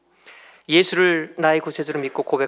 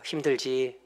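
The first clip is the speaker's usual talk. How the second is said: gentle encouragement; 2 semitones lower than usual. Shown as a demonstration. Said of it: "그냥 한마디 하세요".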